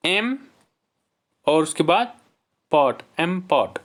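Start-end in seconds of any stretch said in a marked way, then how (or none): 0.1-0.4 "एम" alone, higher, as the first piece; syllable by syllable. Shown as a demonstration. Teacher giving the first syllable separately, syllable by syllable. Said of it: "इसमें भी दो syllable हैं". 2.7-3.0 "पॉट" alone as the second piece; syllable by syllable. Shown as a demonstration. Teacher giving the second syllable separately, syllable by syllable. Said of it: "इसमें भी दो syllable हैं".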